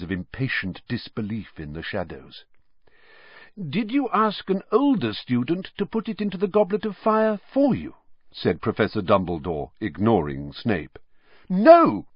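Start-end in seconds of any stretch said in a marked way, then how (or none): 3.6-7.9 put-on a much higher, measured old wizard's query; old headmaster's voice. A narrator's reading. Dumbledore questions Harry. 11.5-12.1 a much higher, louder flat denial; vehement. A narrator's reading. Harry denying to the headmaster, vehement and loud. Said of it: "said Harry vehemently".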